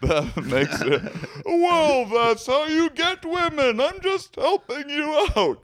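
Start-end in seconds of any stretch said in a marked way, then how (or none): 1.4-5.6 game show announcer. Acted. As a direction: boom it like a prize announcer. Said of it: "You sound like a game show announcer".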